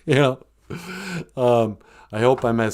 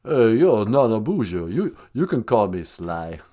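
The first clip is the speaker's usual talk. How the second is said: lightly voiced mumbling action star; a hint of the movie boxer's speech; Sylvester Stallone. Film star greeting the podcast host, lightly impersonated. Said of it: "We're gonna call up, uh, S-, the actor Sylvester Stallone".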